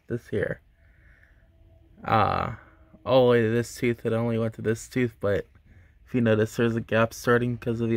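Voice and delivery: lip pulled aside by finger; talking while showing braces; speaking with finger in mouth. Real, not acted. Seen 1: Finger hooks lip corner showing braces through most labelled words, brief release near 3.1.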